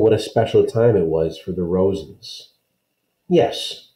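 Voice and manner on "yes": happy. Acted. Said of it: "Kirsty agreed happily".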